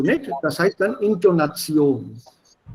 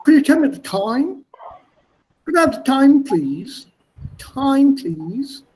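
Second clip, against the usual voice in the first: higher, lively English melody, Could you tell me the time; other English melody; 7 semitones higher than usual. Shown as a demonstration. Teacher contrasting a different English melody with Indian English. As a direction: sing the question up and down the English way. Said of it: "that melody is totally different".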